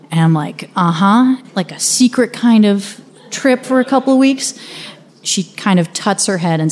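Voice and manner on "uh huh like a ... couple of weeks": lightly acted child conspirator, rising pitch; conspiratorial tone. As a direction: ask as if in on a secret. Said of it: "I take on a conspiratorial tone".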